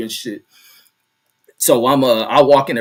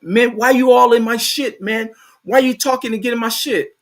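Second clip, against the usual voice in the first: much higher mock tough-guy whine; acting tough; 8 semitones higher than usual. Coworker confronting the narrator, mock tough. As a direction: play the coworker puffing himself up. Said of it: "he gonna come out here acting tough".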